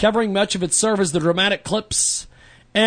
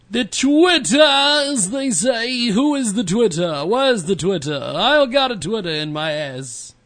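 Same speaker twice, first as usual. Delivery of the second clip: New York housewife; 3 semitones higher than usual. Pretend. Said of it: "Why do I sound like a, a, a housewife from, uh, New York?".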